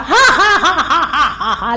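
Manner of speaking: high, loud ha ha ha; loud Soweto laugh. Shown as a demonstration. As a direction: laugh freely at home. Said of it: "like this".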